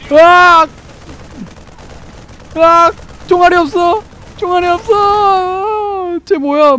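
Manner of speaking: shrill scream, near tears; terrified screaming. Real, not acted. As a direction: scream high in real terror. Shot and attacked, screaming.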